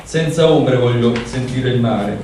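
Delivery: measured, even recital of a poem; poetry reading. Acted. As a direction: read the poem aloud with care. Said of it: "ora vado con la traduzione".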